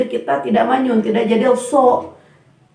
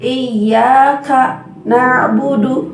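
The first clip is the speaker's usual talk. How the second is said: iyyaka drawn out, then a catch before na'budu; a small stop after iyyaka; wrong saktah pause; 2 semitones higher, much slower than usual. Shown as a demonstration. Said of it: "padahal tidak disaktah". (iyyaka ditahan lalu berhenti sejenak)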